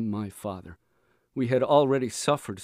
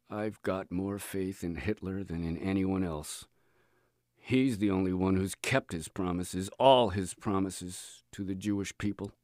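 weary voice; 2 semitones lower, 4 dB quieter than usual. Acted. Faceless neighbor answers the boy, weary and resigned. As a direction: let the words sag with exhaustion. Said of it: "in a weary voice".

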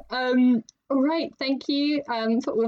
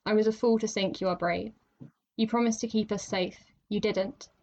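poem reading; 2 semitones lower, 3 dB quieter than usual. Acted. Reads her backwards poem aloud.

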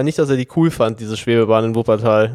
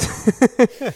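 high laugh; 9 semitones higher than usual. Real, not acted. Laughing at a singer's performance.

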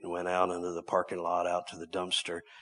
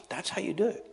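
preaching exclamation; 11 semitones higher, faster than usual. Shown as a demonstration. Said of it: "this is how Jesus did it".

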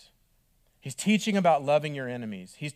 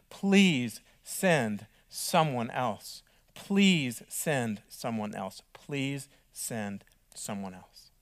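slow pleading fading away; slower than usual. Acted. Moses begging, repeated, dying away.

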